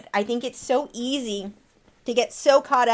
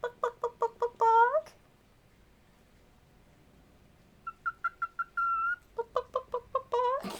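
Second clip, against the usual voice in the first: rapid high hen clucks, last one held; chicken clucking; 5 dB quieter, slower than usual. Shown as a demonstration. Owner showing her bird how to bok, high chicken clucks. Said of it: "I taught my chicken how to balk".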